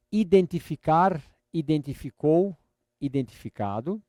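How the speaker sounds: slow, drawn-out model words, pausing after each; teacher's slow chant of a verb list; repeat-after-me drill. Shown as a demonstration. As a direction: stretch each word out for a learner to repeat.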